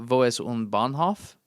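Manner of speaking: slow, careful German phrase; attempted German. Shown as a demonstration. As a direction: sound it out in German. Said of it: "Where is the train?".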